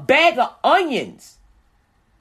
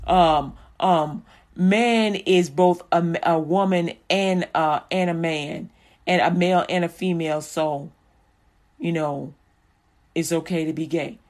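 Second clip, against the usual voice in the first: imitating others' argument; 5 semitones lower than usual. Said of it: "when they say".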